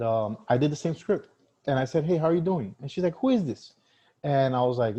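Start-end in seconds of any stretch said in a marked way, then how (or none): 2.0-2.7 high, loud, cheerful hello; upbeat greeting. Retold or imitated. Retold call greeting. 3.2-3.7 high, loud, rude demand. Retold or imitated. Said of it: "she had a heavy accent, and she was a little bit rude".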